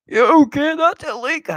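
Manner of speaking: high squeaky mock voice; high character voice. Gamer voicing game figures, high squeaky mock voice. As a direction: play a fussy high figure.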